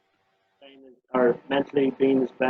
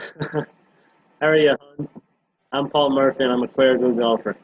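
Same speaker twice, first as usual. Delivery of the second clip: broad Irish Wexford accent, played up; 5 dB louder than usual. Shown as a demonstration. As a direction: ham up a thick Wexford accent. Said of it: "in your very, very best Wexford accent".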